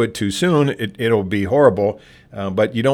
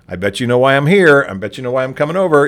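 light, friendly, knowing tease; friendlier tone; 3 semitones higher, 3 dB louder, faster than usual. Shown as a demonstration. Librarian teasing a misbehaving regular in a friendly tone. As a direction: gently let them know you've caught them. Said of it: "in sort of a lighter touch, a friendlier tone".

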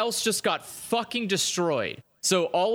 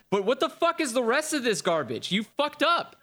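climbing higher into a ranting yell; fed-up gamer's exasperated yell; building outrage; 7 semitones higher than usual. Retold or imitated. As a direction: blow up at the developers. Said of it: "You're like".

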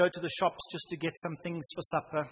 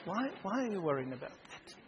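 gentle voice of the Lord; 2 semitones higher, 5 dB quieter than usual. Retold or imitated. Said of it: "the Lord is saying".

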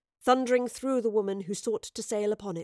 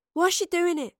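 higher, louder urgent question; cutting in; 9 semitones higher, 5 dB louder than usual. A narrator's reading. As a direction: jump in before she finishes. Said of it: "Astrid cut in".

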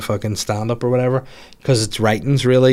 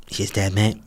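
Manc accent; 4 dB quieter, slower than usual. Shown as a demonstration. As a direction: have a go at sounding Mancunian. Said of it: "I tried to do a Manc accent".

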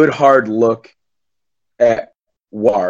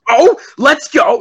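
long, slow, much higher and louder "Oh, let's go"; hype caster; 4 dB louder, slower than usual. Shown as a demonstration. Caster hyping a big play, drawn-out high excited cheer. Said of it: "this loud hype guy who cracks jokes".

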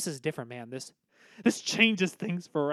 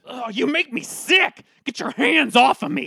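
angry outburst; 5 semitones higher, 4 dB louder than usual. Acted. Shoving friend away.

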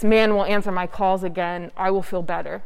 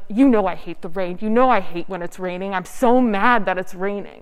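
retold irritated complaint, lightly heated; mock-mad grumble, a touch of emphasis; mildly angry; 4 dB louder than usual. Retelling a rainy walk with a friend, mildly angry. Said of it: "angry at the rain".

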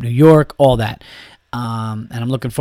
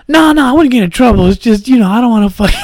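loud indignant denial; 11 semitones higher, 7 dB louder than usual. Retold or imitated. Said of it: "they call you back".

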